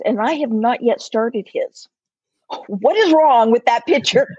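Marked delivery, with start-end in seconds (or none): 2.7-4.4 laughing at herself. Real, not acted. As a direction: laugh through a self-mocking question.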